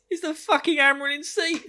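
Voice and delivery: high, far-off announcer call. Acted. Host announcing the Amyrlin like a game show.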